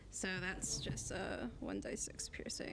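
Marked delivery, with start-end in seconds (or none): 1.1-2.7 whispering. Real, not acted. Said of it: "whispered damage roll".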